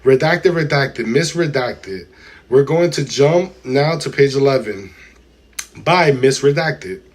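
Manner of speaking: measured, deliberate reading voice; transcript read-aloud. A narrator's reading. Streamer reads testimony to chat, deliberate read-aloud. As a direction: read it out word by word, formally.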